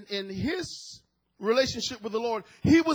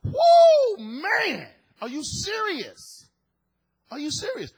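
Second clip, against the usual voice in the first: loud high whoa, falling to stunned disbelief; shaken; 10 semitones higher, 7 dB louder, slower than usual. Retold or imitated. Preacher reliving his shock at the story, shaken. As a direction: cry out in shock, then question in high-pitched disbelief. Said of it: "that thing shook me".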